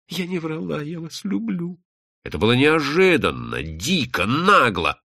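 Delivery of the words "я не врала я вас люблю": high, soft woman's voice; hushed, high, earnest declaration; pleading confession. Acted. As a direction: confess love softly, pitched high. Woman confesses love to him.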